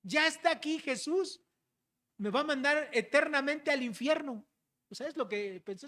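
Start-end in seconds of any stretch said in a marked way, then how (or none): 0.0-4.5 lightly acted demon, pitched up; demon's thought. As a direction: voice the demon's dread in a raised pitch. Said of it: "este demonio pensó".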